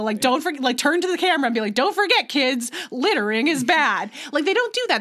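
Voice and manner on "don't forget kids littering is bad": Captain Planet style. Retold or imitated. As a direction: turn to the camera and moralize like a cheesy superhero. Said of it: "Captain Planet style".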